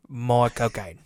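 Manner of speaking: low, broad mock-Cockney; Michael Caine. Co-host trying the other catchphrase, low impression. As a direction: imitate the actor saying his own name. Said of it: "that's the other one".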